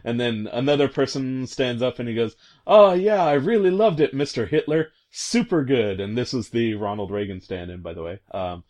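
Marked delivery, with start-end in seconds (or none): 2.7-6.0 high, eager fawning; gushing praise. Retold or imitated. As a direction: gush up high, overeager. Reagan stand-in gushing to Hitler.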